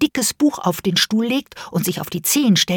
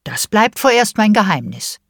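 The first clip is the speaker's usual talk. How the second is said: teasing mother; 3 semitones higher, 3 dB louder than usual. Acted. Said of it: "Mama hat gelacht und gesagt".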